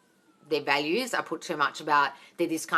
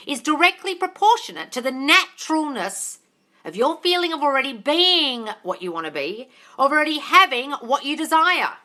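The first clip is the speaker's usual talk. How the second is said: loud, high, hammered-home delivery; raised voice, stretched key words; emphatic quote reading; 8 semitones higher, 7 dB louder than usual. Real, not acted. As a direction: drive the point into stubborn listeners. Reads quote emphatically to obsessed followers.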